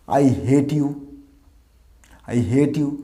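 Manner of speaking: hate as "het", short vowel; common mispronunciation. Shown as a demonstration. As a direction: say hate to rhyme with "get". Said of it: "এটা বলি না". (ভুল hate, "হেট")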